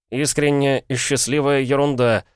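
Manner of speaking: высокий возмущённый ответ; грубовато отмести чужую мысль, повысив голос; грубо. A narrator's reading. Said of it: "грубо отозвался Пол". (грубо, с возмущением)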